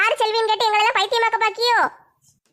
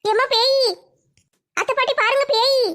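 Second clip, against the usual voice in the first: scared cry; 4 semitones higher than usual. Acted. Sees a ghost, cries out.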